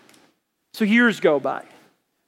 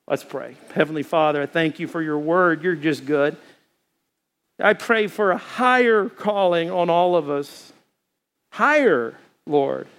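closing prayer. Acted. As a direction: pray over the congregation.

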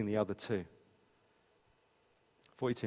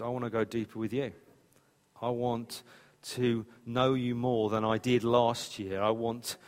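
prayer. Acted. Closing prayer.

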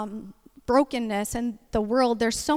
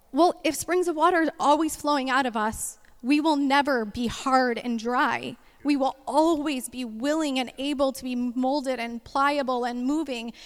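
fervent preaching; 2 semitones higher than usual. Acted. Preaching at full force.

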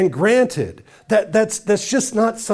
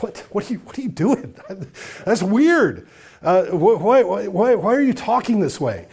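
higher, laughing disbelief; weirded out; 4 semitones higher than usual. Retold or imitated. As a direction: react as if it's bizarre. Other person shocked by forgiveness.

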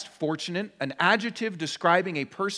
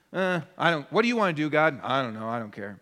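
bored God; 2 semitones lower, faster than usual. Pretend. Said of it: "God is just kind of a".

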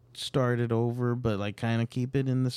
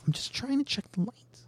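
whispering; 12 semitones higher, 5 dB quieter than usual. Acted. Whispered chipmunk apology.

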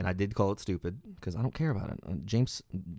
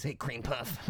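jock taunt; 4 semitones higher, 8 dB quieter, slower than usual. Retold or imitated. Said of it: "that jocks would call the nerds".

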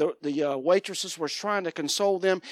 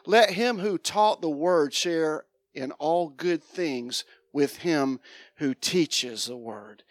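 scripture reading; 2 semitones lower, slower than usual. Acted. Reading scripture aloud slowly.

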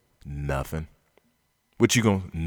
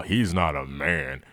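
mock critic; 3 semitones lower than usual. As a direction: sneer it like a self-righteous pundit. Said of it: "how dare he break this unwritten law".

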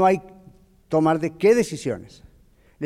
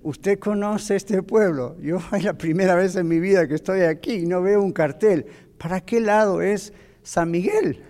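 laughing disbelief. Retold or imitated. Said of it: "Y yo dije".

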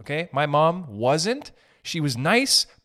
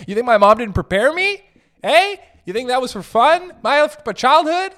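loud, high, laughing rant; rising rant; 9 semitones higher, 8 dB louder than usual. Real, not acted. Comic ranting at online haters, loud and high. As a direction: rant louder and higher at the haters.

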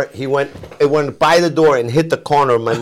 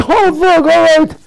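much higher, fed-up groan of surrender; exasperated giving in; 12 semitones higher, 5 dB louder, slower than usual. Retold or imitated. Son caving to his father, exasperated. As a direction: throw up your hands and give in. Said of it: "I'm like".

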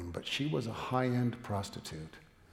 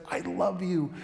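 high, insistent avowal of love; fervent declaration; 6 semitones higher, 5 dB louder, slower than usual. Acted. Man forgiving the woman he loves, fervently declaring. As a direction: repeat it higher-pitched, building in force.

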